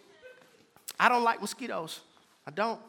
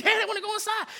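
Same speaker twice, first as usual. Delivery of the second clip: put-on toddler voice; 13 semitones higher, faster than usual. Toddler daughter voiced, laughing.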